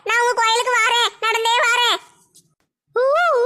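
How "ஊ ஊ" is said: ghost howl. Acted. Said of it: "நாங்க தான் பேய் மாதிரி கத்துனோம்".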